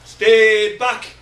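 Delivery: loud shout of a mocking crowd; screaming warning. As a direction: yell it to push people away. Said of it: "It screams".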